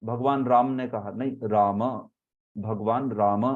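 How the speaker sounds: राम with a held final m; Sanskrit Ram. Shown as a demonstration. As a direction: stretch the m in भगवान राम. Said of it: "ह्रस्व ही होता है लेकिन लंबा होता है".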